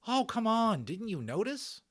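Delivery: put-on high loud scoffing kid voice; exasperated boy. Patrick mocking Omri for missing the belly, high scoff. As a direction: roll your eyes at your friend.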